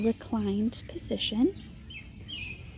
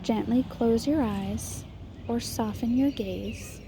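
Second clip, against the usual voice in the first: measured meditation guide, long pauses between phrases; guided meditation. Acted. Meditation leader guiding listeners to settle and notice their breath, guided meditation. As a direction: lead them gently through it, leaving space after each instruction.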